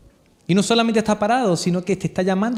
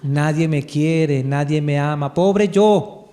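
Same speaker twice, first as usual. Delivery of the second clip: a light, low, slow cartoon whimper; Calimero whine; 4 semitones lower, much slower than usual. The preacher mimics Calimero's self-pity, slow and low. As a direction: mope it like the sad little chick. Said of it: "comiquita antigua que se llamaba Calimero".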